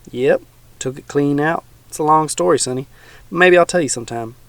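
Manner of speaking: a hint of a folksy old swamp dweller; teasing old man, lightly voiced.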